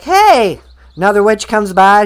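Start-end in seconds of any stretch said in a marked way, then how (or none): 0.0-0.6 louder, higher playful "Hey!"; mock shout. Munchkins shouting at Dorothy, mock yell. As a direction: call out hey like a cheering crowd. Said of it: "they're like".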